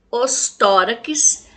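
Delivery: "Os" leaned on, "tórax" drawn out slowly; slow down and point at the article "Os"; teacher stressing the plural article. Shown as a demonstration. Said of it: "continuaram do mesmo jeito".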